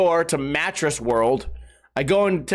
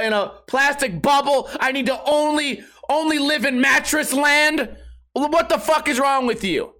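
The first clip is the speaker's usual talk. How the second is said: exasperated rant; 4 semitones higher than usual. Retold or imitated. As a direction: rant in full disbelief. Ranting about insurance upsell.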